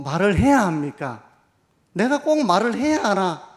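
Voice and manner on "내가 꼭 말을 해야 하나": reluctant grumble, higher and louder, stress on 꼭; grumbling reluctance. Pretend. Pastor voicing a reluctant churchgoer, grumbling. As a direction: sulk out 꼭 as if words were a chore. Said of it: "이렇게 생각하시는 분도 계실지 모릅니다".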